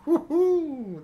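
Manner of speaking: high, laughing whoop of delight; excited whoop. Retold or imitated. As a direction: whoop it out like a thrilled kid. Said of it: "and I was like".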